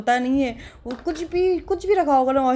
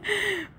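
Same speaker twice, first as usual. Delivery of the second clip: high giggle; 10 semitones higher, 4 dB quieter than usual. Real, not acted. Laughs at husband staring.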